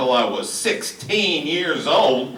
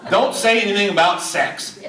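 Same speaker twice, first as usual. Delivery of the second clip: mock holler; 2 semitones higher than usual. Shown as a demonstration. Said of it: "you don't have to holler".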